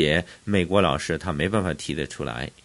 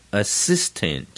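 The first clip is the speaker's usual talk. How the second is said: assistant with faint 'uh', strong SIS; light first syllable. Shown as a demonstration. Teacher repeating the model, assistant with light start. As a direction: brush past the A of assistant onto SIS. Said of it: "前面的呃也是很轻".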